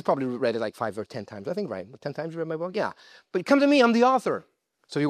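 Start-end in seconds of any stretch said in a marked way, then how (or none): 2.0-4.4 God's voice. Acted. Preacher voicing God who wrote the book, high playful laugh. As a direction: play God teasing, fast and amused. God keeps teasing about Pastor Alex.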